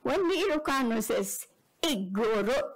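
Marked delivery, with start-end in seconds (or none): 1.8-2.6 "Igorot" with the front hit hard; stress on first part. Shown as a demonstration. Lecturer showing the loaded Ilocano usage, "Igorot" front-stressed. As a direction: lean on the start of "Igorot". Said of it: "with the emphasis on the first word".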